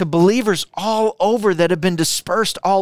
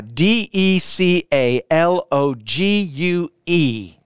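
slow, each letter of D E C A L O G U E said separately; spelled out letter by letter; slower than usual. Shown as a demonstration. Pastor spells the word for the online chat, slow and deliberate. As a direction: spell it out so they can type it. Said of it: "Put it in the chat right now".

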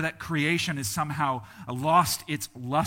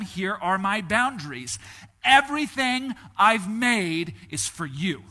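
louder and higher, slow and sweeping on everything; booming voice of God; 4 semitones higher, 6 dB louder than usual. Acted. Preacher voicing God to the first humans, booming and grand. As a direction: proclaim it like God giving everything away.

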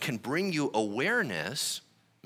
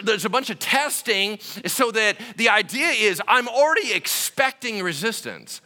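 normal talking voice

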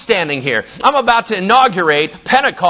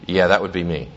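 softer and lower, a calm quiet reveal; quiet understated reveal; 13 semitones lower, 5 dB quieter than usual. Acted. Jesus telling the woman he is the Messiah, quiet and understated. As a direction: drop it low and let it land.

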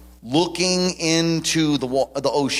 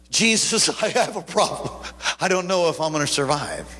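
inner prayer; 3 semitones higher than usual. Retold or imitated. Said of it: "I'm thinking".

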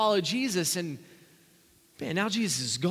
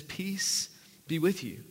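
slow, softer peace greeting; gentle; 4 dB quieter, slower than usual. Shown as a demonstration. Pastor voicing Jesus greeting frightened disciples, slow and gentle. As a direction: let the peace settle slowly. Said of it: "He says it twice here".

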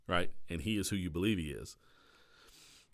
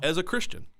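"Christian" pitched way up, rising in disbelief; incredulous emphasis; 12 semitones higher, 6 dB louder than usual. Real, not acted. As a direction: stress "Christian" high as if you can't believe it. Shocked at own past behaviour.

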